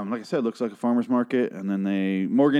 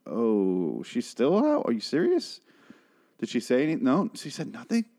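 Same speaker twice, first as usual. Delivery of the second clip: surprised; 2 semitones higher than usual. Retold or imitated. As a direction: act stunned that she's still out. Acting out people at a bedside.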